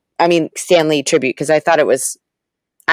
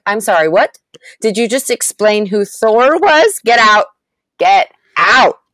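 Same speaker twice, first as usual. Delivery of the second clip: mock outrage; 3 semitones higher than usual. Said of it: "I was like".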